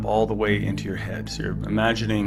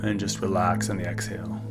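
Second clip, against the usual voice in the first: whispering; 6 dB quieter, faster than usual. Acted. Breathing guidance on the exhale.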